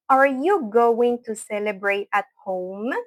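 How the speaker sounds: slow, measured question for learners; slow model pronunciation. Shown as a demonstration. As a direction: take each word slowly, as a teacher would. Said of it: "voy a hablar lento".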